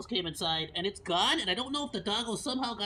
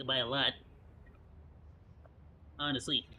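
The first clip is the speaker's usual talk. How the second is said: normal talking voice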